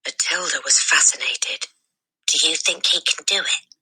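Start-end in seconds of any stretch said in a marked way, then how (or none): 2.3-3.8 breathy hushed question to a friend; whispered. A narrator's reading. Girl whispering to her friend in the hall, hushed whisper. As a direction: whisper it so no teacher hears. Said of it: "she whispered to Lavender".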